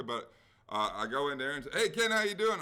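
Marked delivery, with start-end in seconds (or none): 1.7-2.6 high, loud bright hello; cheery greeting. Retold or imitated. Greeting the liquor store clerk, loud and cheery.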